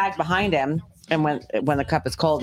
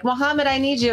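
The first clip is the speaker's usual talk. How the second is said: high mock call over the radio; playful retold summons; 10 semitones higher than usual. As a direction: call him in, pitched up, as if on a radio. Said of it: "be like".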